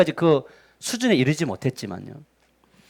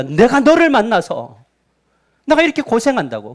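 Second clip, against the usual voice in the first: higher, mildly aggrieved grumble; spousal complaint; 4 semitones higher than usual. Acted. Spouse blaming partner for a hard life, complaining. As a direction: complain at the spouse who caused it.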